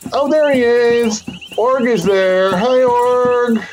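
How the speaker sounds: put-on high, cheerful girl calling out; a girl happily greeting her troll friend; excited young girl.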